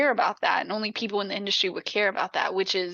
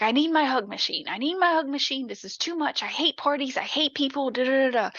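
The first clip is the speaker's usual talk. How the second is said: mildly panicked rattle, pitched higher; mock freak-out; 4 semitones higher than usual. Daughter freaking out to her mom at party, mildly panicked. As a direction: imitate someone getting worked up and overwhelmed. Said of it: "and then she freaks out".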